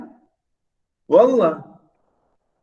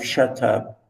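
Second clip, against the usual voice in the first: muttered quote; 5 semitones lower, 5 dB quieter than usual. Shown as a demonstration. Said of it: "Why do you say this to your wife".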